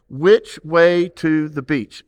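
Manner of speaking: muffled through a hand over the mouth. Shown as a demonstration. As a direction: speak through your palm, slowly. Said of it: "Put your hand over your mouth".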